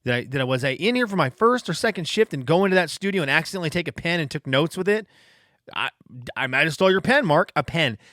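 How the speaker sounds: high, frantic second-guessing; a terrified new hire doubting himself, pitched high; panicked inner voice. Retold or imitated. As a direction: voice the rising panic of self-doubt. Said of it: "I remember in that moment thinking".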